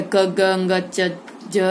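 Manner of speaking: क, ग, च, ज as short sounds with little air; short unaspirated consonants. Shown as a demonstration. Teacher shows pupils half-sounded letters, क, ग, च, ज short and unaspirated. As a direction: cut क, ग, च, ज short, not fully voiced out. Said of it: "पूरा पूरा नहीं बोल सकते इनको".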